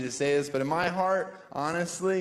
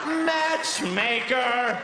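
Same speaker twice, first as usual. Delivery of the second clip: matchmaker; 8 semitones higher, much slower than usual. Acted. Triumphant shout after joke.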